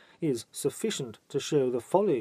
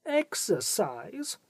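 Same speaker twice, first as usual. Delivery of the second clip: "Exercise?" drawn out slowly, pitched much higher, rising at the end; emphatic question; 8 semitones higher, much slower than usual. A narrator's reading. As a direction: lean hard on "Exercise?" as if in italics, slow and rising. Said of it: "with an emphasis which almost warrants italics".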